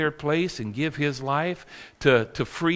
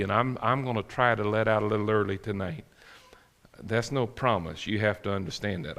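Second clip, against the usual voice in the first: whispered aside; 7 semitones lower, 7 dB quieter than usual. Real, not acted. Aside promise to end early.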